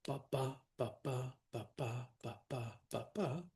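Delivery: "ba, ba" in pairs, second beat stronger; unstressed-stressed beat. Shown as a demonstration. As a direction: tap out five soft iambs, "ba BA", evenly. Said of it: "unstressed, stressed".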